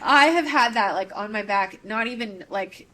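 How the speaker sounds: choked up while confessing a relief; crying. Real, not acted. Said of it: "Sorry, I'm crying about it".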